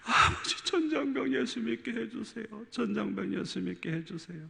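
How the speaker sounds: soft, hushed pleading prayer; tearful whispered prayer. Retold or imitated. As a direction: whisper the plea through tears. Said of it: "강단에서 울면서 기도하는".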